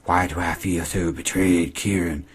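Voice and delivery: slow, voiced, only a hint of a whiny girl; a touch of mock self-pity, not whispered; lightly mocking Emma. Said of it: "She says".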